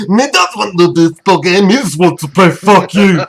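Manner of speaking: slurred, bad drunk Irish-Scottish accent; hammed-up drunken Irish brogue; drunk Irishman. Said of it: "that's the fucking most drunk Irishman".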